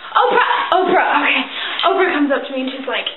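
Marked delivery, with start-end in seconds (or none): 0.1-1.2 sudden recall. Acted. Remembering the goddess's name at last, excited recall. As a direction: exclaim it as it comes back.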